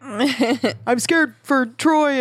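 mock muffled plea from offscreen; mock offscreen shout. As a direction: ham it up like an actor yelling from behind a door. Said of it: "shout through the door".

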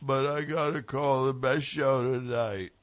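hint of a Southern accent; slight Southern accent. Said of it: "I'm doing my slight Southern accent".

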